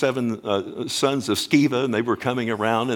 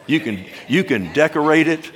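louder, higher and pressing; raised voice; 4 semitones higher, 4 dB louder than usual. Real, not acted. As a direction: push it up with energy. Preacher ribbing vanity, rising voice.

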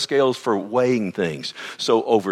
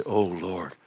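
low, much softer "Oh, Lord"; soft, lowered prayerful aside; hushed sigh to God; 6 semitones lower, 7 dB quieter than usual. Retold or imitated. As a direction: breathe it out as a quiet plea. Pastor's own sighing prayer.

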